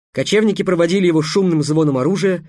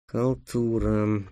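slow, soft weary sigh; 5 semitones lower, 7 dB quieter, much slower than usual. Acted. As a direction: sigh it out in disgust. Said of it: "вздохнул Гавар". (со вздохом)

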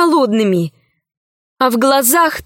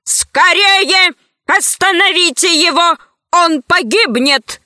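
urgent, higher-pitched call for help; alarmed cry; 6 semitones higher than usual. A narrator's reading. Гайдо begs others to stop him before he dies, alarmed cry. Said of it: "закричал Гайдо".

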